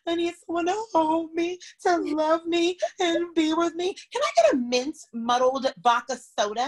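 high-pitched mock sobbing plea; Ramona crying. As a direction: imitate a tearful, hammed-up wail. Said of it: "she was crying in the bar".

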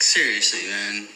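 usual speaking voice

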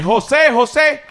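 grito agudo y fuerte para llamar a alguien; llama a voces desde la calle; llamado callejero. Acted. (llamado a gritos, agudo)

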